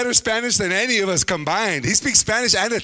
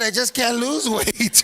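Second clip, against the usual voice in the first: parodied complaint; 3 semitones higher, slower than usual. Acted. Parodies the skinny dudes' complaint.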